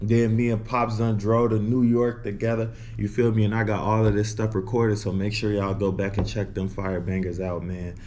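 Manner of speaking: slight lisp from a retainer. Real, not acted. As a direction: talk with a retainer in. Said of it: "If I sound a little lispy".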